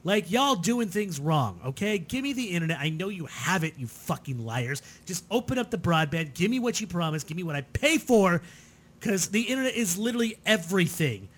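worked-up, emphatic rant; pissed off. Real, not acted. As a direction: let the frustration drive each demand. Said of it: "I'm fucking pissed".

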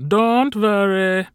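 high, slow, breathless strain; gasping. Acted. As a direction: gasp it out under a heavy load. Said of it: "Carl gasped".

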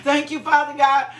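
laughing out a thank you; joyful laughing shout; laughing praise. Real, not acted. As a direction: praise God through real laughter. Preacher laughing in the Spirit.

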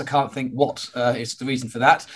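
raspy, worn-out voice after shouting; hoarse voice. Real, not acted. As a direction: speak through a hoarse throat. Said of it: "for my hoarse voice".

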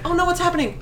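high startled mock gasp; mock alarmed neighbor. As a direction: play the shocked neighbor, high. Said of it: "They were like".

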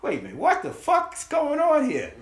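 high, stunned mock disbelief; shocked disbelief. Telling friends about the job offer, high stunned disbelief. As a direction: sell the shock of getting the job.

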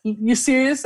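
mock-devastated incredulity; heartbroken disbelief. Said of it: "I was so heartbroken".

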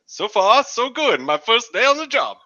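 high, loud game-character voice; put-on character voice. New train worker on first day, put-on character voice. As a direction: voice the rookie high and pushed out. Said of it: "What's his accent? ... you be him".

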